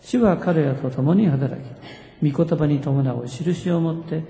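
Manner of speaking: slow, deliberate congregational reading; drawn-out, evenly measured recitation; scripture reading. Real, not acted. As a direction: lead everyone through the verses phrase by phrase. Rereads underlined scripture with congregation.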